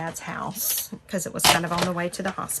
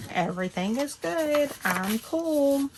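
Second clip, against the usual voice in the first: exasperated reassurance; 8 semitones higher, slower than usual. Retold or imitated. Reassuring crying mom.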